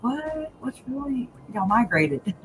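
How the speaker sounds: high, soft mock disbelief; mock surprise. Puzzled at Arizona Thibodeaux, mock disbelief. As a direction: act baffled at the names. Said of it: "you're just like".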